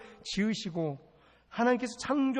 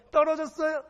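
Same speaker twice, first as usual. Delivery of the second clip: high, raised-voice question; punchy pulpit challenge; challenging question; 10 semitones higher, 6 dB louder than usual. Acted. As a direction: fire the question at the congregation. Acted question-and-answer with congregation.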